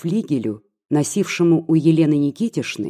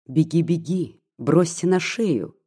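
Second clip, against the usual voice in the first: lightly voiced mocking taunt, a bit slow. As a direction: sneer it lightly, drawing it out. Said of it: "визгливым насмешливым тоном". (лёгкая насмешка, чуть протяжно)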